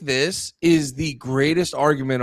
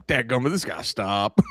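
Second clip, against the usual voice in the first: lower mock folksy grumble; 7 semitones lower than usual. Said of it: "We're just like".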